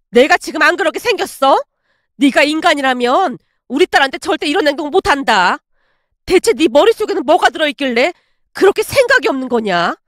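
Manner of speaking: indignant mother laying down the law; heated, emphatic telling-off; angry scolding. Acted. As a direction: scold her and send her packing. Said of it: "왜 그렇게 화를 내시는 거예요?".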